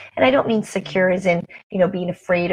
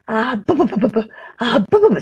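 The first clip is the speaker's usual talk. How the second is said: put-on mom's baby talk; 2 semitones higher, faster than usual. Mom babbling to her baby at the mall, playful baby talk. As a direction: coo nonsense syllables at a baby. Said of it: "she was going".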